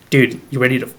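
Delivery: laughed through, in a put-on macho sibling voice; laughing tough-guy quote. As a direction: egg your brother on, cracking up as you say it. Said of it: "you're like".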